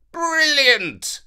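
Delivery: high delighted king's exclamation; exclaimed. A narrator's reading. King hears Avenant's idea, delighted exclamation. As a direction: burst out in delight. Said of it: "exclaimed the king".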